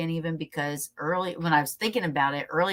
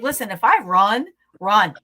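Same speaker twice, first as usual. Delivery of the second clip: mock urgent shout; 4 semitones higher, 7 dB louder than usual. Retelling own panicked reply to friends.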